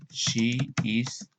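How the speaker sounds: muy lento y claro; slow model reading. Shown as a demonstration. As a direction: dictado lento para la clase. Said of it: "modelo lento para alumnos". (lectura modelo muy lenta)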